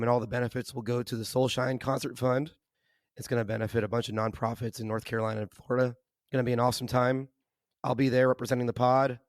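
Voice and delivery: hoarse from laryngitis; rough, strained voice; raspy voice. Real, not acted. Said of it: "Excuse my voice".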